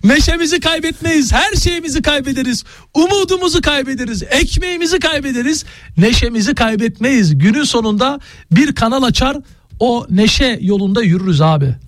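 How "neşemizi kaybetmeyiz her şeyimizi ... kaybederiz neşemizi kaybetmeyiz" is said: high, rousing mock oration; rally the crowd with hammed-up passion; rousing speech.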